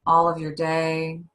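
slow, measured breathing-exercise guidance; guided meditation. Real, not acted.

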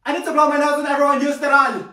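high tearful whine; hammed-up crying. Student at last-day goodbyes, hammed-up blubbering. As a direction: blubber it through exaggerated tears. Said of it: "smiling and then crying".

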